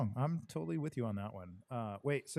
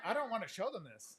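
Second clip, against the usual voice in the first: disgusted laughter; 6 semitones higher, 6 dB quieter than usual. Real, not acted.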